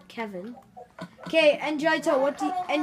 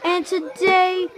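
YouTuber intro; 3 dB louder than usual. Acted.

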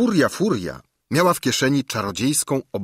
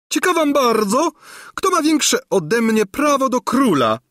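high, loud threatening croak; menacing screech; 5 dB louder than usual. A narrator's reading. Old governess threatens the court, high and loud screeching. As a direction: screech it like a spiteful old witch. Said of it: "zaskrzeczała groźnie Gburja Furia".

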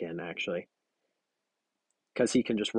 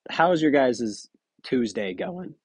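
slow line where the voice cracks at the end; voice cracking; 2 semitones higher, much slower than usual. Real, not acted. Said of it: "voice cracks".

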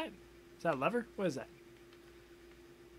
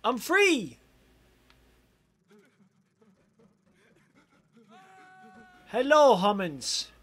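loud gleeful monster, higher; 3 semitones higher, 8 dB louder than usual. Pretend. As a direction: roar it out like a freed beast. Voicing escaped monster.

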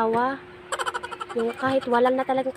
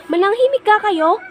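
loud, higher call for silence; raised hush order; 8 semitones higher, 7 dB louder than usual. Retold or imitated. Class president hushing classmates, loud call. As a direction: bark it at the noisy class. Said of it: "Yung for example".

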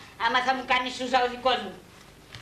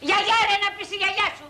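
high, offended snap back; indignant outburst; 7 semitones higher than usual. Acted. Client called a granny retorts, indignant. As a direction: throw the insult straight back.

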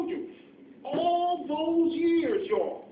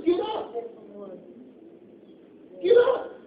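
shouted command; 5 dB louder than usual. Acted. Preacher urging listeners to leave the church, shouting. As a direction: yell it out to the pews.

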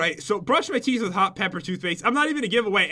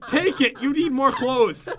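pushy waiter voice; 5 semitones higher, slower than usual. Retold or imitated. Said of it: "they did".

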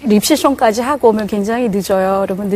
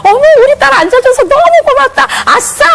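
much higher, louder, squealing with joy; gleeful delight; 13 semitones higher, 5 dB louder than usual. Retold or imitated. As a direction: cheer like a thrilled mom. Mother gleeful with daughter. (딸이 안 자서 기뻐하는 엄마, 신나게 환호하며)

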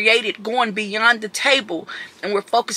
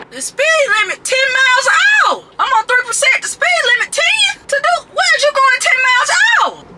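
put-on New Orleans accent; 12 semitones higher than usual. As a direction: rant in a New Orleans accent about crawling traffic. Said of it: "from New Orleans accent".

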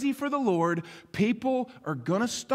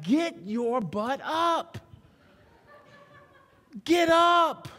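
tough love command; 7 semitones higher, much slower than usual. Acted. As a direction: bark the order at a lazy kid.

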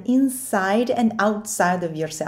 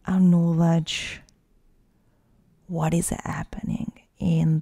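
guided meditation. Acted. Coach leading listeners through facing their fear, guided meditation. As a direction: guide the listener inward, unhurried, leaving space to breathe.

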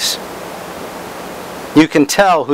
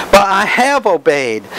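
higher-pitched, stubborn protest, stress on HAVE; stubborn insistence; 6 semitones higher than usual. Acted. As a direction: insist stubbornly, as if wrongly accused. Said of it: "Stubbornness, you say, is in there too".

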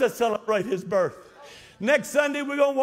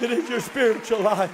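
shouted preaching. Acted. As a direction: belt it to the back row. Shouted take before plain repeat.

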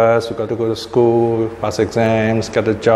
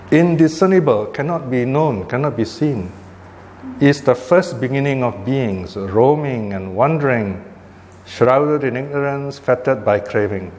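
scripture reading. Acted. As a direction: let each phrase of the teaching stand apart. Reads scripture aloud to class.

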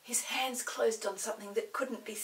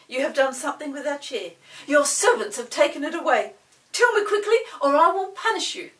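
loud, demanding pixie voice; angry pixie demanding the chair back; 3 semitones higher, 11 dB louder than usual. A narrator's reading. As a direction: threaten the goblin loudly. Chinky angrily demands the chair.

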